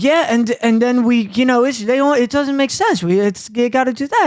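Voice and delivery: a hint of a babbling nephew; imitating nephew. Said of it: "Where he's like".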